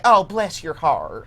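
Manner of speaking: a lightly voiced Nathan Lane witch. Shown as a demonstration. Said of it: "She, she's like".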